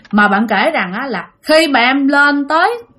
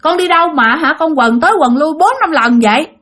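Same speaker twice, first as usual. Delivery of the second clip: lightly imitated mother's call, pitched up; 5 semitones higher than usual. Child imitates for mother the voice heard calling, lightly scolding. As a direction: quote a scolding mother with mild exasperation. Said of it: "tiếng của mẹ kêu rằng".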